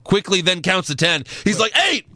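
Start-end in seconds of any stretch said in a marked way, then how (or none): 1.9-2.0 hammed-up count-out call; mock referee count. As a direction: imitate a ref calling out the count.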